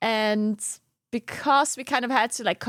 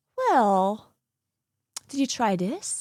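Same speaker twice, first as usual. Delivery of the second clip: put-on calm, soothing voice. Retelling how someone calmly answered during a frustrating audio setup: Ice Badger's calm soothing voice. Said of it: "super calm with his, like, soothing voice".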